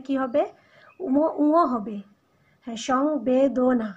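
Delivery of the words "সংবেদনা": সংবেদনা drawn out very slowly, syllable by syllable; slow demonstration. Shown as a demonstration. Teacher modelling the word for pupils, very slow and deliberate. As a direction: stretch out সংবেদনা so students hear every sound. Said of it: "আমরা কিন্তু সংবেদনা বলি না".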